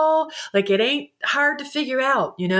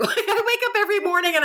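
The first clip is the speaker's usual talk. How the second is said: laughing; 11 semitones higher, faster than usual. Real, not acted. Laughs at herself.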